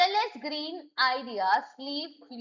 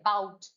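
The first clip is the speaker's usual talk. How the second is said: "about" with the weight on BOUT; stress on second syllable; 4 semitones lower than usual. Shown as a demonstration. Teacher showing syllable stress to students, stress on BOUT in "about". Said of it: "stress है".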